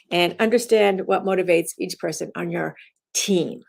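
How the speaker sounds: "understand" leaned on after "And"; "understand" stressed, the rest even. Shown as a demonstration. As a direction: bring the weight back to "understand". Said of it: "you emphasize it to change the meaning".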